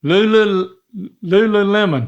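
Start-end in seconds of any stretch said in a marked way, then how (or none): 1.2-2.1 Lululemon said the American way, lemon like the fruit. Real, not acted. Dad finally gets the brand name right. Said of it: "Yep, there it is".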